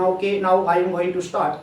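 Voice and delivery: slow, drawn-out start; slow announcement. Real, not acted. Teacher slowly announcing the lesson to students, drawn out. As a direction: spell out each word slowly as you begin.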